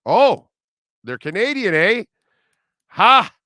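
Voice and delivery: loud, high-pitched crowing with a playful "eh"; triumphant surprise. Real, not acted. Host told his hunch about the Canadian band is right, triumphant surprise. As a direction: burst out, pleased to be proved right.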